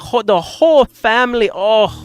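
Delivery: high, loud mock grandma with a Chinese accent; the speaker's fake Chinese grandmother. Made-up grandmother praising John's cooking, exaggerated Chinese accent. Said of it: "my fucking fake grandmother into it".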